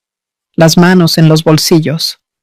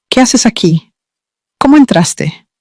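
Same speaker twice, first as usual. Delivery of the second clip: startled alarm; 5 semitones higher than usual. Acted. Startled by open door, mother.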